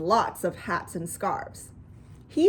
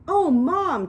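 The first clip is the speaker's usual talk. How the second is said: excited amazement; 7 semitones higher, 6 dB louder than usual. A narrator's reading. Child amazed at mother's surprise animal.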